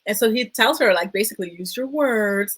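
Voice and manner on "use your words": slow, lightly imitated parental prompt; parent to child. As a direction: mildly talk down as to a child. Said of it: "you would tell a child or a student".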